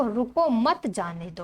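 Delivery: "रुको", a clear pause, then "मत जाने दो"; pause after रुको. Shown as a demonstration. Teacher showing where the punctuation mark falls, pausing after "रुको". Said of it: "तो यहाँ पर चिन्ह देखो".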